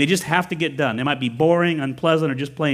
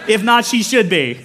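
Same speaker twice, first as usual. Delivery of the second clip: laughing; 6 semitones higher, 5 dB louder than usual. Real, not acted. Joking aside to congregation.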